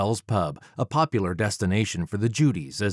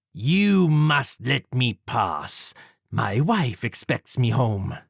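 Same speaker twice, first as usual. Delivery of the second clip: slow, higher, prim gentleman killer; pleading Jack; 3 semitones higher, slower than usual. Acted. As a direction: plead your way past him, slowly. Villain Jack voiced in story.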